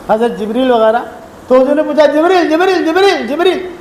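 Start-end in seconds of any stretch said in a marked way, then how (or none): 2.0-3.7 higher-pitched repeated call; imitated summons; calling someone over. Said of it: "بلایا قریب".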